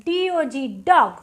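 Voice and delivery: ডিওজি ডগ spelled out slowly, then ডগ with an open অ sound; slow spelled demo. Shown as a demonstration. Teacher spells ডগ slowly for pupils, open অ. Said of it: "যেমন ধরো".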